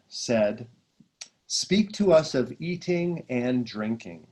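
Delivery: slow, solemn reading of a sacred passage; reading scripture aloud. Acted. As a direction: read it like a meditation text, unhurried. Reads passage from The Prophet.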